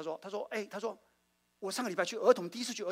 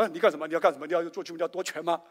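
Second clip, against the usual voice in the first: loud teasing challenge; playful mock alarm; mock suspicion; 7 dB louder than usual. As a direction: tease him like he's grabbing power. Mock suspicious pastor retort.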